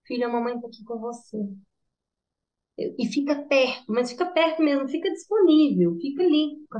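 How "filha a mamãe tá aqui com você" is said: softer, quicker soothing mother; quietly reassure, I'm right here; calm reassurance. Retold or imitated. Mother calmly answers angry child.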